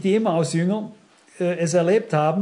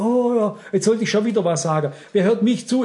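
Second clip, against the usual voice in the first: timid excuses; 2 semitones higher than usual. Retold or imitated. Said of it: "Ich darf jetzt nicht sagen".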